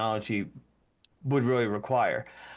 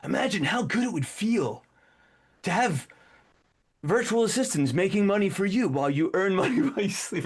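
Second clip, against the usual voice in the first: mock ad pitch; 5 semitones higher than usual. Shown as a demonstration. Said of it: "you'll see this in advertisement".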